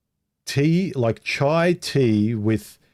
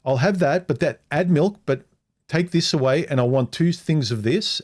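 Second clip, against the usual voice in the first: high-pitched mock of a fussy customer insisting; imitating his date; 6 semitones higher than usual. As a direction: raise the voice and play her picky and sure of herself. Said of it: "And she was like".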